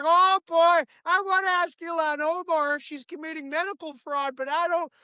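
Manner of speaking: a lightly goofy Minnesota dad; Tim Walz impression. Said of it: "He was like".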